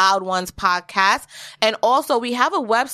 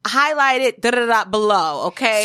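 politely impatient. Retold or imitated. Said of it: "in the most corporate way".

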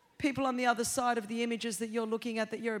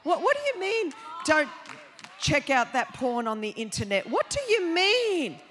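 mocking questions.

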